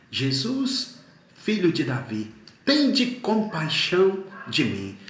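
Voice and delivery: retold crying out, stretched on the plea. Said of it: "Ele começa a gritar".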